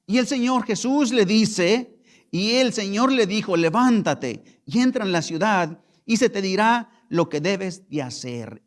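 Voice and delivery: loud, proclaiming reading; preaching the verse. Acted. Pastor reads the Lord's command to the church, loud.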